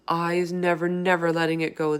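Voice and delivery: cried. Acted. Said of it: "the B F G cried".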